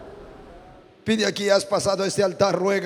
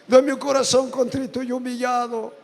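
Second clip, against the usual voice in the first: fervent prayer; 5 semitones higher than usual. Shown as a demonstration. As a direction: cry it out to God. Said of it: "decirle, Señor". (súplica ferviente en voz alta)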